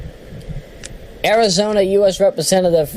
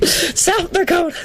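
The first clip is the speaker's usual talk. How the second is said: high, drawn-out rally cry, slowed; Howard Dean; 12 semitones higher than usual. Acted. List reader mimicking a candidate's speech, high rally cry. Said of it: "whenever I hear Howard Dean, I have to do that".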